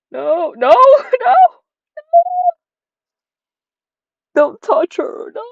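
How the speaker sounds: panicked escalating shout; rising panicked no. Acted. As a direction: build from pleading to yelling don't touch her. Building panicked no.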